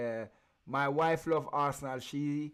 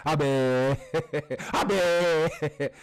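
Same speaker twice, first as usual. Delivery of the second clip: mocking shout; 10 dB louder than usual. Taunting rival fans, laughing.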